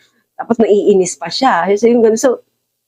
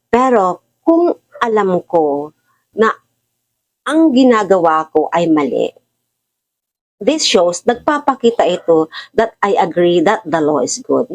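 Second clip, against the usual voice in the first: scripture reading. Acted. Reads Tagalog version of verse.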